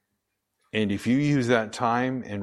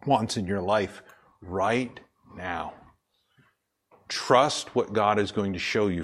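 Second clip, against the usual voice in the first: slow, earnest plea; solemn exhortation; slower than usual. Acted. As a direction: urge them gently, drawn out.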